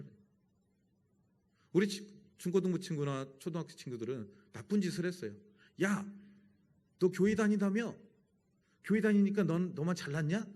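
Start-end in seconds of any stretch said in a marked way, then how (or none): 5.8-10.5 higher, louder challenging quote; mock taunt. Old schoolmates confronting you for going to church, mock taunt. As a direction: imitate friends needling a churchgoer.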